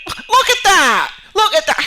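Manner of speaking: host's guest reacting to the crash, loud and amused; laughing exclamation. Real, not acted. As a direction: point at the wreck in disbelief. Watching the crash clip.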